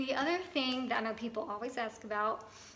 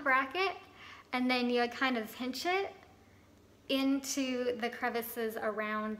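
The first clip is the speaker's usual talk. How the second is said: talking while pressing teeth; fingers in mouth. Real, not acted. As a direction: lip pulled aside. Seen 1: Fingers pinch wax onto front braces, lips held apart; brief break +2.6.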